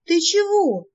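высокий вскрик; крикни испуганно; крикнув. A narrator's reading. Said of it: "крикнула я". (высоко вскрикивает)

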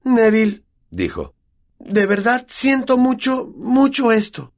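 put-on high, slow, sorry girl's voice; apologetic Hermione. A narrator's reading. Hermione apologises to Neville, high and slow. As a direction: voice her regret, pitched high and slowed. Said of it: "Hermione dio un paso adelante".

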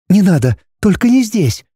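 high, begging heroine; pleading girl. A narrator's reading. Heroine begging the dragon, high pleading. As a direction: plead with him to stop. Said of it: "взмолилась".

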